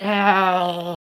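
drawn-out groan; exasperated groan. Acted. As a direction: groan at how much it all is. Groans at the play's events.

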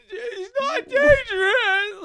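high, drawn-out tearful wail; slow, loud, hammed-up crying plea; overacting kid. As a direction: overact a child's scream at full tilt. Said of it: "they put a hundred and ten".

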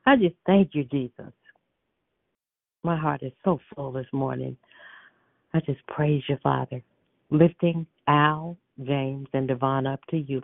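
earnest spoken prayer. Acted. Morning prayer on a prayer line.

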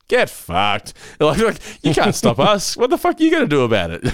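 high, cocky mock defiance; mock-brash creators telling critics off; defiant creators. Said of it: "they're just like".

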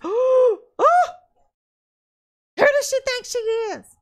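hammed-up snooty critic; mocking critic. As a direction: critics sneer at her early preaching. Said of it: "everybody was".

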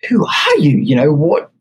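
imitating a startled shop girl; freaked-out quote. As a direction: mimic her alarm at a stranger turning up. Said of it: "She is freaking out".

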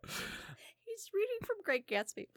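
high, slow words through helpless laughter; laugh-crying out the words. Real, not acted. Telling the Gatsby story to Jimmy, laughing so hard she can barely speak.

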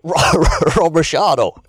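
high squeaky put-on surfer voice; goofy high voice mocking a pro surfer; jokey high-pitched parody voice; Kelly impression. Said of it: "this is a Kelly impression".

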